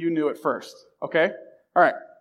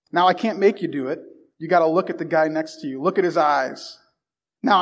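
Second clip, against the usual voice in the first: steady, building locker-room speech; rousing coach pep talk. Acted. Coach to his players before the big game, rousing pep talk. Continues Any Given Sunday speech.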